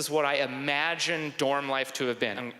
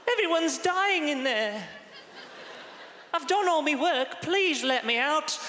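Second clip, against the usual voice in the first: put-on high, laughing Victorian child voice; pleading urchin; 13 semitones higher than usual. Orphan begging the headmaster to be let out, high pleading. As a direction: beg like a grimy orphan, hammed-up.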